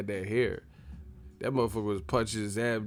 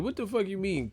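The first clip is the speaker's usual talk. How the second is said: high-pitched baffled question; squeaky exasperation without shouting; mock incredulity; 9 semitones higher, 3 dB quieter than usual. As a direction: pitch it way up in comic disbelief. Mock disbelief at third-person talk.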